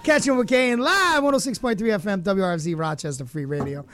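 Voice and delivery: big DJ station ID voice; radio announcer. Acted. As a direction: sell it like a radio host.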